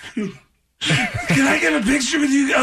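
high, slow, hammed-up blubbering; mock crying. Fan asks quarterbacks for a picture, mock crying. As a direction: blubber the request in fake tears. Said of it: "was of somebody crying".

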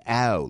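"oh" with a fronted glide, "eh-oh"; South Jersey vowel. Shown as a demonstration. Host demonstrating the regional sound, Philadelphia "oh". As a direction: say "oh" the Philadelphia way, almost English. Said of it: "it's like an".

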